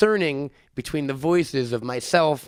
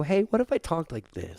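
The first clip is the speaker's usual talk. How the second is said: soft and concerned; 5 dB quieter than usual. Shown as a demonstration. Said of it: "really soft and concerned".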